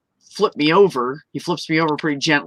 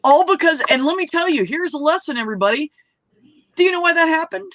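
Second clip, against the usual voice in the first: emphatic high announcement; 12 semitones higher than usual. Real, not acted. Announcing a lesson to everybody.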